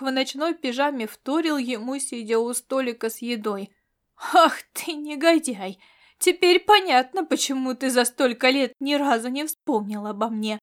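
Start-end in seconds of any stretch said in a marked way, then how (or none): 4.3-10.6 furious. Acted. Marian raging at Agatash who forgot her, furious. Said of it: "подумала она с яростью".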